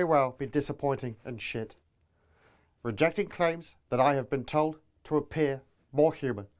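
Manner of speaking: flat monotone robot politician; robotic delivery. Acted. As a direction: read it like an emotionless machine. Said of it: "Starmer's robotic delivery, lack of character".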